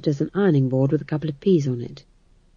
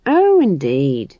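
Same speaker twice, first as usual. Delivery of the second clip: drawn-out, louder, pleased agreement; happy; 2 semitones lower, 5 dB louder, slower than usual. A narrator's reading. Chamberlain agrees about witches, happy and emphatic. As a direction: linger cheerfully on the first word. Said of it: "said the chamberlain happily".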